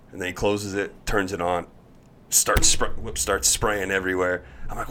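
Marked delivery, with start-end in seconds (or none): none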